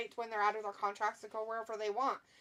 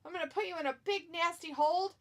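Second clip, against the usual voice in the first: higher-pitched mock trash talk; playful, higher-voiced bragging threat; play-acted wrestler threat; 6 semitones higher than usual. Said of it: "He's like".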